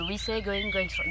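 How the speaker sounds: English lyric with a French accent. Real, not acted. Dance teacher recalling the song lyrics, French-accented English. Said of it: "Désolée pour mon super accent anglais".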